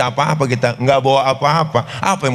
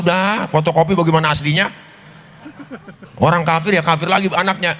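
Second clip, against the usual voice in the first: angrier Jibril; 4 semitones higher than usual. Acted. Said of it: "Jibril tambah marah".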